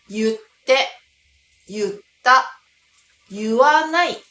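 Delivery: 言って, 言った, 言わない with yu, as yutte, yutta, yuwanai, punched loud; casual yutte for 言って; colloquial readings. Shown as a demonstration. Teacher showing how natives talk, 言った as yutta. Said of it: "と発音しているネイティブも非常に多い".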